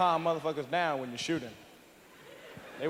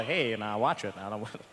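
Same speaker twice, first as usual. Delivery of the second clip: timid white guy; 9 semitones lower, 4 dB quieter than usual. Retold or imitated. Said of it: "They go".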